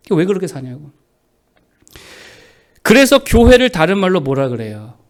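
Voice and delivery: ordinary delivery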